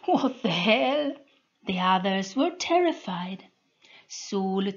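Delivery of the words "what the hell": higher, louder frightened cry; panicked repeat. A narrator's reading. Soldier panicking as his power fails. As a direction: echo it in rising panic.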